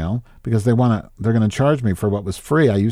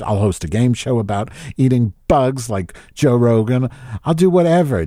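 pleading in a higher, whining voice; hammed-up self-pitying whine, higher; whiny desperate plea; 6 semitones higher than usual. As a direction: beg the universe for a break, half-mock. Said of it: "I'm thinking".

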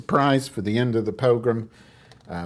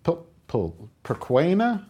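baffled repeat; 10 semitones higher than usual. Retold or imitated. Man puzzled by strange word.

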